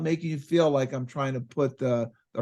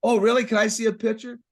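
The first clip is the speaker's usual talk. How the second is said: high, louder excited gush; mock eager "Oh, really?"; excited client; 8 semitones higher, 4 dB louder than usual. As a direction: imitate a client getting excited.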